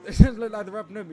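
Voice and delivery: loud, high laughing call; laughing while commentating. Real, not acted. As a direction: laugh through the line.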